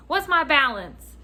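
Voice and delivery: a hint of an impatient customer asking; voiced customer question. Customer asking the clerk for his balance, lightly impatient.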